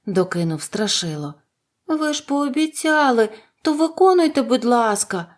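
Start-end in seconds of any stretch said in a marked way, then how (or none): 1.9-5.3 high, urgent exclamation; exclaiming. A narrator's reading. Dorothy holding the wizard to his promise, exclaiming. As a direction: cry out a high-pitched plea. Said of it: "вигукнула Дороті".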